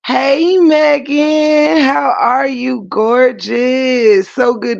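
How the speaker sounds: high, bright welcome; excited greeting. Real, not acted. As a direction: greet her with big excitement. Greeting viewer joining live.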